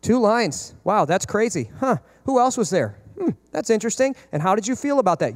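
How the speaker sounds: understated, carefully unfazed reactions; mildly curious, giving nothing away; poker-faced parent. Acted. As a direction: take shocking news without reacting, leaving pauses. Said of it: "sit there with your poker face".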